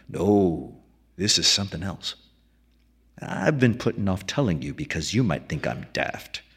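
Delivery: a hint of a weathered old keeper musing; old keeper McDunn. McDunn speaking.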